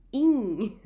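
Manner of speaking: In as nasal i through nose; loud nasal In. Shown as a demonstration. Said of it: "The next vowel sound is in".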